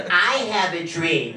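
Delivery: slow mock-stupid delivery; mocking dumb voice. Proving the silly voice ruins anything, mocking. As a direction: make the famous line sound silly. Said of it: "It all sounds stupid with that voice".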